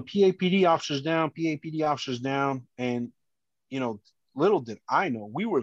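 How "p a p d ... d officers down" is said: retold yelling. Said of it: "So I just kept yelling".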